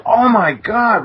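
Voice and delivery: high, slow gasp of alarm; startled, gaping at the window; retold shock. Retold shock at seeing saucer.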